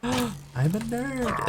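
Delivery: high, slow, dismayed cartoon kid voice; Bart's nerd line. Bart seeing his reflection in glasses, high and slow. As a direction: draw it out like a horrified schoolboy. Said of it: "From The Simpsons".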